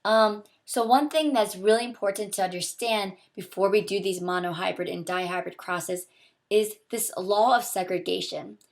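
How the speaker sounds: hoarse from a sore throat; talking through a sore throat. Real, not acted. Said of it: "I do have a really sore throat".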